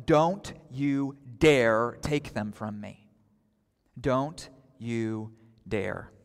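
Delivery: slow, low, seething warning; a hint of a grieving father's threat; quiet fury. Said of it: "he points a finger at God and says".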